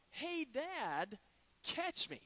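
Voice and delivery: high-pitched, unforced imitation of a boy's yell; mock yell. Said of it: "I hear my son yell out".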